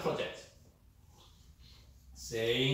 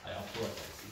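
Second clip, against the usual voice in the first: softer, lower I apologize; plain apology; 6 semitones lower, 8 dB quieter, much faster than usual. Shown as a demonstration. Teacher contrasts the plain apologize, softer and lower. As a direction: say it simply, without the oh. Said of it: "It's a little bit different".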